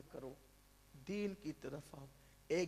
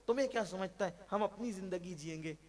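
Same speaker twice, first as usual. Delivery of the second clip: mock defiant son; 2 semitones higher than usual. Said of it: "باپ سمجھاتا ہے".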